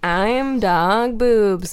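drawn-out, loosely Irish intro; slow, slightly Irish-sounding lilt; vague Irish accent. Acted. Co-host introducing himself on the pod, vague Irish accent. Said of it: "Did you say that with an Irish accent?".

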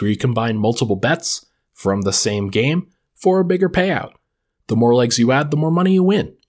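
upbeat sponsor ad read. Acted. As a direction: sell it like a radio spot. Podcast host reads sponsor ad.

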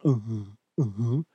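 imitated mocking kid's uh-huh, lilting up. Kid in an adult's face while being scolded, mocking. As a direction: needle them with a rising, sing-song uh-huh. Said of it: "he starts doing that mocking thing".

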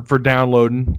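downloading said as "downloadin'"; dropped g in downloading. Real, not acted. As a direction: end downloading on a plain n, "downloadin'". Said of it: "I just said downloading".

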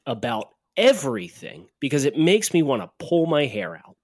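emphatic, fed-up sports rant; exasperated rant. Real, not acted. Host scolding complaining Eagles fans, exasperated rant. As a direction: rant in exasperation, punching key words. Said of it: "that was one of your great rants".

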